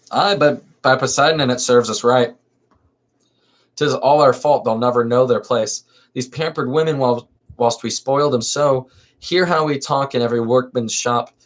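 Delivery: lively theatrical reading of a verse comedy; dramatic play reading. Acted. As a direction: read the chorus lines with stage energy. Reads magistrate's speech.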